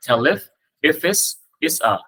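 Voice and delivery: "tell if", "if it's", "it's a", each pair linked; linking broken down. Shown as a demonstration. Teacher breaks the sentence into three links, pair by pair. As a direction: join each pair, pausing between pairs. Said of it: "Cái này có ba chữ nối âm lận".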